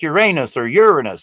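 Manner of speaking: Uranus with stressed second syllable, then stressed first; two pronunciations. Shown as a demonstration. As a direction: contrast your-AY-nus with YUR-a-nus for Uranus. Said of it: "emphasis is put on the vowels".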